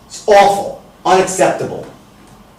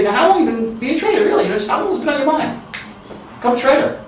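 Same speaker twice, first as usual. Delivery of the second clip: higher, quick and interested; curious; 7 semitones higher, 5 dB quieter, much faster than usual. Shown as a demonstration. Coach acting the rapport-building question, curious and higher. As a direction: lean in with curiosity. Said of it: "Or you can say".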